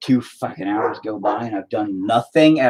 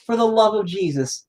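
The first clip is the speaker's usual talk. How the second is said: fed-up scolding; 10 semitones higher than usual. Real, not acted. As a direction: lay down the law, losing patience. Scolding the kid at door.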